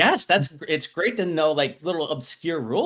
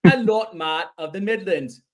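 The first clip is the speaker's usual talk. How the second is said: loud, high-pitched mock British lordly welcome; British accent; 4 semitones higher, 5 dB louder than usual. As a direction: play a pompous British lord introducing guests. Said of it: "have gone full British".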